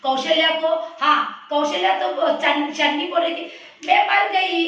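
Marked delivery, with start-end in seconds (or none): 3.9-4.7 put-on child voice. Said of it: "ऐसे".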